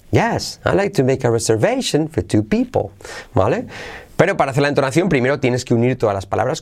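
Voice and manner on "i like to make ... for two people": statement tune peaking on "reservation" and "people"; affirmative intonation. Shown as a demonstration. Teacher after cue word yes, affirmative intonation. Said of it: "usaremos yes".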